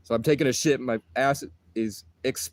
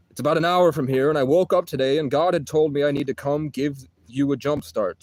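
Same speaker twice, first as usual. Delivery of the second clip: louder, lightly imitated Scottish stranger; imitated Scottish accent; 3 semitones higher, 4 dB louder than usual. Giant stranger explaining why he came, imitated Scottish accent. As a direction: push it out in a mock Scottish accent. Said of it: "but with his accent".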